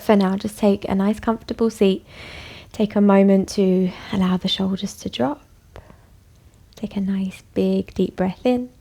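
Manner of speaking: calm, unhurried yoga teacher; guided relaxation. Acted. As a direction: settle them down gently, with long pauses. Leads bedtime yoga settling.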